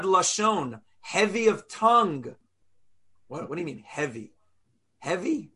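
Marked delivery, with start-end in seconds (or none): 3.3-5.5 much softer, lower, puzzled asking; a soft, low, puzzled aside; puzzled hush. Shown as a demonstration. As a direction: drop the voice and wonder aloud. Rhetorical puzzled question.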